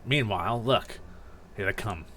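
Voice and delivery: cool, dismissive captive. Acted. Grovyle telling a panicking captive to look, coolly dismissive. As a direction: stay unbothered and terse.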